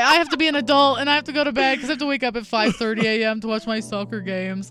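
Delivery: hammed-up imitation of a responsible adult; mock grown-up excuse. Retelling the date's bedtime excuse.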